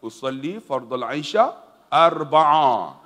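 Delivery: slow recitation of "arba'a"; prayer intention. Shown as a demonstration. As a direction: recite the niat slowly. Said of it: "Apa dia?". (lafaz niat perlahan)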